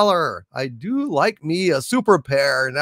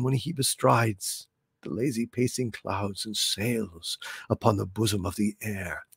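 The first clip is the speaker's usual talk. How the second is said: theatrical verse recital. Acted. Host as Romeo hearing Juliet speak, theatrical. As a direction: swell as an adoring Romeo, then hush.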